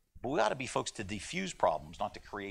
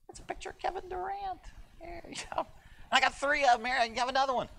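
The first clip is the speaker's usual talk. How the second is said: amused excitement; 11 semitones higher than usual. Real, not acted. Excited about card sale aside.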